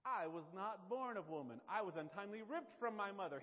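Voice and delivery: loud, stagey swordfight boast; Macduff. Acted. Macduff revealing his birth to Macbeth while fencing, loud and declaimed. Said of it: "They're, they're fencing. He says".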